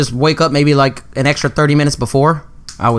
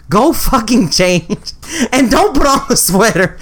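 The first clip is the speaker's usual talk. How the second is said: retold stern order; 5 semitones higher, slower than usual. Scolding brother about sweater.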